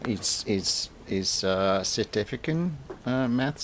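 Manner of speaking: a clumsy stab at South African; South African accent. Retold or imitated. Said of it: "sorry for my terrible South African accent".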